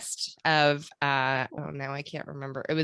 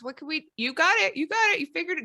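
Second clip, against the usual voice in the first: higher voice of a lady plotting in secret; pitched-up, conspiratorial mock woman; scheming lady inventor; 4 semitones higher than usual. Women at the pavilion plotting against the men, lightly voiced.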